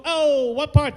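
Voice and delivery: exaggerated New York exclamation; New York accent. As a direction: toss it out as a hammed-up New Yorker. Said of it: "Uh, New York".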